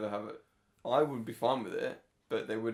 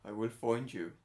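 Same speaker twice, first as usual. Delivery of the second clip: lightly put-on Irish accent; Liam Neeson; 2 semitones lower than usual. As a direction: attempt a film hero's threat in an Irish accent. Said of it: "He's not that Irish in it".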